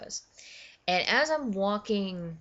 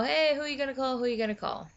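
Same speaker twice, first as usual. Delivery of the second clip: higher, sing-out catchphrase; imitated teasing coworkers; 8 semitones higher, much faster than usual. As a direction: mimic people calling out a catchphrase. Voicing coworkers teasing the costume.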